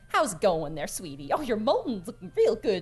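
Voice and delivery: folksy, fussing mother figure; lightly voiced doting tavern hand; motherly Skinny. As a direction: fuss over a sweetie like a mom. Plays Skinny, motherly tavern worker.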